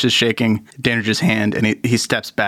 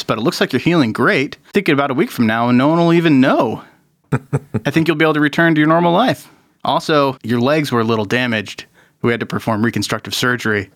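doctor voice; 2 semitones higher than usual. Acted. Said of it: "he says".

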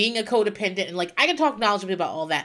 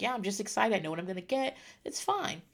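imitating her son; 8 dB quieter, faster than usual. Child pretends calm before shot.

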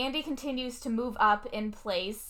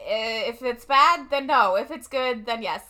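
put-on clueless kid; 3 dB louder than usual. Clueless kid brother answers.

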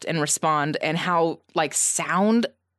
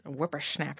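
put-on old prospector; 3 semitones lower, 10 dB quieter than usual. Shown as a demonstration. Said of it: "That have a slur when you say that, like you got dentures".

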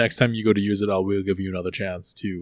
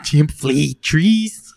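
loud, slow, broken ape talk; loud chimp voice; 5 semitones higher, 8 dB louder, much slower than usual. Acted. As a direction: bellow it like an angry chimp.

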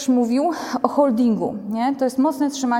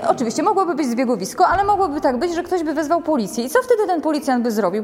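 normal talking voice

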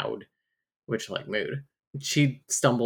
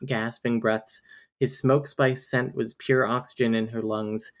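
romance novel narrator. Acted. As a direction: lightly read book narration. Reads a romance novel passage.

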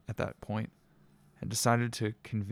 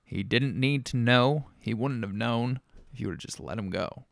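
menacing; 4 dB louder than usual. Acted. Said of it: "said Rob menacingly".

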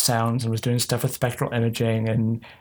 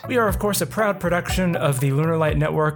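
podcast outro read; 3 semitones higher than usual. Acted. Outro read over music.

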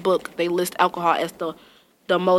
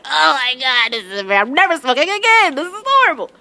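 retold panic; 5 semitones higher, 3 dB louder than usual. Panicking after throwing up.

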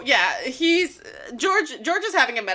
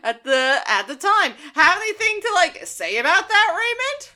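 George acted; 2 semitones higher than usual. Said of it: "And George is like".

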